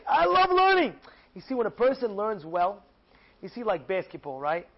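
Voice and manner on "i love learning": joyful exclamation. Acted. Yossi discovers love of learning.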